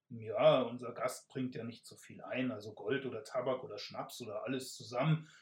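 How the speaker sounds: a sly thief getting excited about a profit; eager robber. Acted. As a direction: sell the plan to your partner. Robber Bran pitches a scheme.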